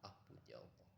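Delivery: inner prayer. Retold or imitated. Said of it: "ampunan dalam hati".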